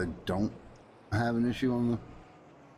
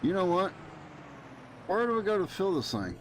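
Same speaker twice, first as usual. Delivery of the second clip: exasperated; 9 semitones higher than usual. Real, not acted. Exasperated at game.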